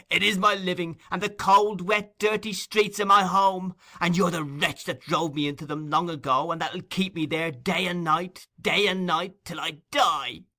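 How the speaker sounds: high, loud screamed words; vehement scream. Acted. Nancy screaming her life at Fagin. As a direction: pour it out in one scream. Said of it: "one continuous and vehement scream".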